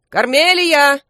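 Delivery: loud high call across the way. A narrator's reading. Detective calling the crow back, loud call. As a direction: call after the flying crow. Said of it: "крикнул Эклер".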